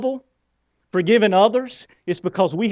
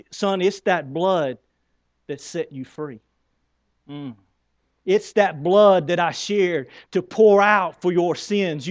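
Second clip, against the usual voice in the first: tender voice of God; slower than usual. Acted. God voiced speaking to the son.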